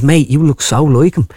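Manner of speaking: slow, drawn-out Dublin delivery man; lightly acted Dublin voice, drawing it out; north side Dublin accent. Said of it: "a North Side dub".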